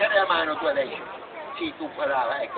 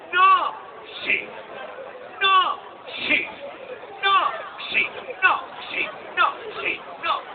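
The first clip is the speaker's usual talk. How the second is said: shouted no; 8 semitones higher, slower than usual. Acted. Puppet argument.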